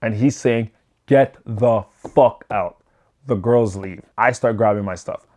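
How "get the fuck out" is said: slow, mock angry order; a mild imitation of the yelling dad; retold yell. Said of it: "He's yelling at the girls".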